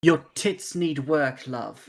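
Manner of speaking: put-on old-fashioned theatrical stage voice. Playing Tenebrae, pretending to do a Shakespearean impression: Marta voice. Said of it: "pretending to do a Marta voice".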